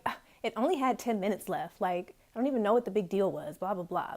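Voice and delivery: mildly exasperated grumble, retold; retold frustration. Student turning off the TV, retelling mild frustration. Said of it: "getting frustrated and just turning off the T V".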